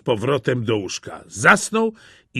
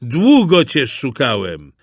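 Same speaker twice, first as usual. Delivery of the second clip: hunter's triumph; 7 dB louder than usual. Acted. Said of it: "powiedział".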